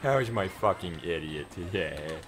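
slow, lightly cutesy voice for the dog. Pretend. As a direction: coo slowly at the dog. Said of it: "in a cute voice".

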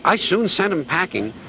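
boastful James. Acted. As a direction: puff up and boast. James speaks.

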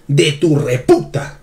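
"reputa" drawn out slowly, hard stress on the U; "reputa" with the accent landing heavily on U; stress on reputa's U. Shown as a demonstration. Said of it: "con tilde en la U".

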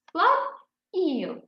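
"іл" read sound by sound. Shown as a demonstration. Teacher sounds out "іл" for children, sound by sound. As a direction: split "склад іл" into its sounds. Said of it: "Читаємо ми по звуках".

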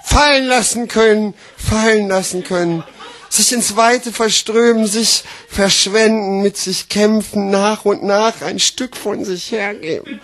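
deliberate declaiming in separated phrases; slam poetry recital. Acted. Slam poet on letting go, deliberate declaiming. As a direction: recite it with weighty pauses.

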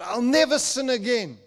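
imitating the kid's loud vow. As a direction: belt the promise to God. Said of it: "he's making a deal with God".

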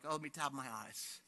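mock gentle tears. Preacher mimics gentle weeping for contrast, softly mocking. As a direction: play down a dainty little cry. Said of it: "the gentle tears of a baby".

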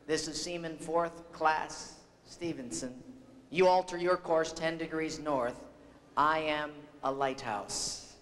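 understated retold reply, measured and unforced; unruffled seaman. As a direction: answer the admiral's bluster calmly, slowing on the punchline. Unruffled seaman answers the angry admiral.

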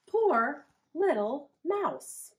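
high, slow, drawn-out pity; pitying mice. Acted. The other mice mourning their friend, high and slow. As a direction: stretch it out like sad little mice. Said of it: "said the other mice".

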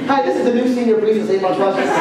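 fast, laughing fake introduction; mock announcement. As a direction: pretend to be the new priest, grinning. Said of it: "Just kidding".

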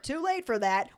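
normal talking voice

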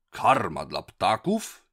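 slow, loud groan of disgust. A narrator's reading. Pirate chief groans at the doctor, in disgust. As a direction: moan it out, revolted. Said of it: "jęknął z obrzydzeniem".

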